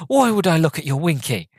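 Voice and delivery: high-pitched, put-on disbelief; mock incredulous. Billy answering Steve's warning, mock incredulous retort.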